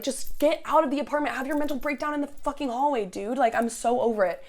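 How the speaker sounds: high-pitched exasperation without full volume; mild mock yell, fed up; retold screaming. Resident telling intruder to break down in the hallway, retold exasperated yelling. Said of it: "I am, like, screaming at them".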